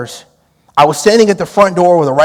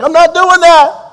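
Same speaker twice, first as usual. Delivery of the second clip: high, slow, laughing no way; amused flat refusal; 12 semitones higher, 5 dB louder, slower than usual. Retold or imitated. Refusing suspect's dare, laughing.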